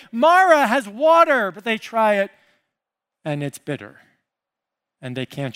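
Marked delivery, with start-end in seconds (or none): 0.1-1.5 excited crowd shout. Retold or imitated. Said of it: "Two million people say".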